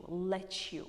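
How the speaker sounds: "let you" run together as "let-chu"; milder, joined-up "let you"; American blended T and Y. Shown as a demonstration. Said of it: "American people prefer to make it milder".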